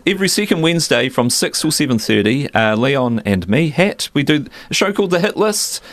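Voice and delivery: upbeat radio host plug. Acted. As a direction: plug the show like a DJ. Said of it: "into the radio voice".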